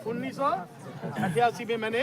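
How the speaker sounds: each word of the date spaced out slowly; slow emphatic date. Shown as a demonstration. Preacher drilling the date into the crowd, slow and deliberate. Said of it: "बोलो कितनी तारीख को?".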